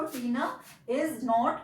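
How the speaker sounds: very slow, each word set apart; slow dictation. Shown as a demonstration. Teacher showing the class the new sentence, very slow. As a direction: lay the words down one at a time. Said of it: "देख लीजिए इसको".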